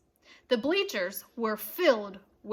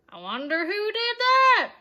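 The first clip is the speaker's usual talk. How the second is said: higher, puzzled question; innocent wondering fan; 7 semitones higher, 5 dB louder than usual. A narrator's reading. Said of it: "asked another fan".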